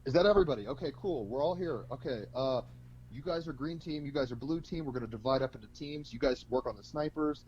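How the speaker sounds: a lightly voiced squad leader taking charge; squad leader on radio.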